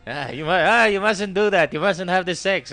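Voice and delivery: put-on Jewish accent. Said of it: "maybe I can try it in a Jewish accent next".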